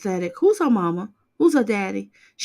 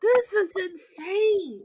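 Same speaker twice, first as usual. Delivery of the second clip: laughing disbelief; 10 semitones higher, slower than usual. Real, not acted.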